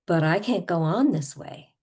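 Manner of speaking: emphatic acted complaint; over-the-top exasperation. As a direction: pretend end of tether. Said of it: "we're gonna go over the top".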